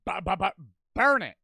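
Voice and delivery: high, loud, stuttering outburst; mock-alarmed yelled command; urgent shout. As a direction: shout it in comic panic, tripping over the words. Urging to burn haunted doll.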